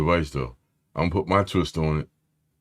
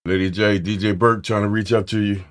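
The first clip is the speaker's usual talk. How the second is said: louder, higher, pumped-up call to a friend; hype shout-out; 4 semitones higher, 5 dB louder than usual. Real, not acted. Streamer hyping up Lady J to the chat, loud and pumped.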